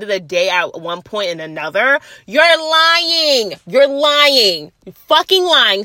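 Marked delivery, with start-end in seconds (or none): 2.3-5.8 accusing. Real, not acted. Calling out liars.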